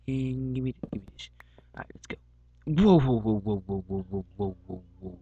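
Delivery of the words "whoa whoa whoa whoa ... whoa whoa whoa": loud startled whoa that fades out. Real, not acted. Gamer startled by something in the game, loud then fading. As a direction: jump back, then calm down.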